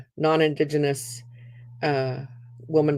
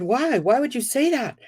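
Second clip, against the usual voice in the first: high, bewildered asking; genuinely baffled question; puzzled why; 7 semitones higher than usual. Retold or imitated. Clerk asking the customer why, puzzled.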